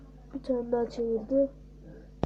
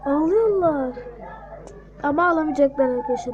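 excited gloating; 3 dB louder than usual. Real, not acted. Gloating as attackers struggle.

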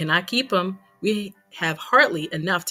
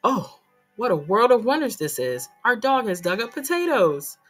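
a touch louder, wondering exclamation; amazed gasp; 5 dB louder than usual. Acted. Papa amazed at the dog digging up potatoes, awed exclamation. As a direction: marvel at the sight like a miracle. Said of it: "Papa gasped".

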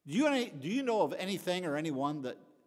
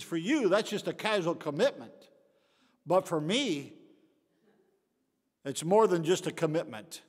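louder, pointed protest; indignant pig; 2 semitones higher, 8 dB louder than usual. Acted. Pig correcting the chicken about his sacrifice, loud indignant protest. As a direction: set the chicken straight, firmly. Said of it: "He says".

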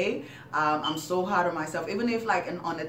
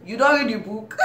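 louder, laughing mom comeback; mock mom retort; 4 semitones higher, 7 dB louder than usual. Mom dismisses kid's headache, loud laughing mock retort. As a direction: snap back as the mom, cracking up.

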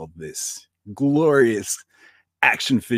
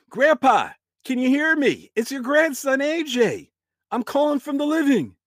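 calling out; 13 semitones higher, 5 dB louder than usual. Acted. Calling to spirit, raised.

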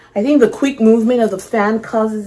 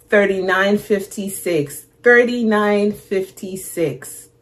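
slow puzzled reading; slower than usual. Shown as a demonstration. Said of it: "What is that?".

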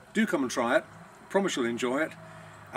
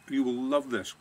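talking through a mouthful of bread; mouth full. Real, not acted. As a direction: say it while still chewing, mouth full. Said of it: "Excuse me for speaking with my mouth full".

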